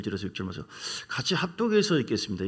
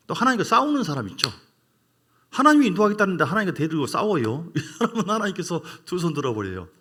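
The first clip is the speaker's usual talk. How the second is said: higher and louder, pushing the point; raised preaching voice; 5 semitones higher, 5 dB louder than usual. Real, not acted. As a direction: preach it with a burst of energy. (목소리를 높여 힘있게 설교)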